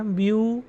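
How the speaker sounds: ब्यू said on its own as a full syllable; isolated syllable. Shown as a demonstration. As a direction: hold ब्यू apart as the first syllable. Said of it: "जैसा कि उच्चारण है".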